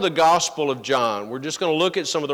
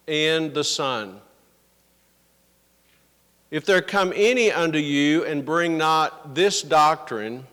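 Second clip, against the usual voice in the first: measured Bible reading with long pauses; scripture reading. Acted. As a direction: read the verses out solemnly, phrase by phrase. Reads the scripture aloud.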